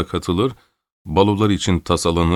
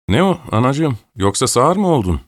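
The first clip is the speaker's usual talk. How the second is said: raised-pitch, exasperated countess; mild scolding shout; 6 semitones higher than usual. A narrator's reading. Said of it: "diye bağırdı". (hafifçe bağırarak azarlama)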